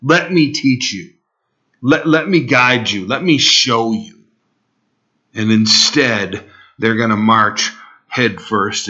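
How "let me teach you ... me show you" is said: pleading. Acted. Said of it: "As he's pleading with them".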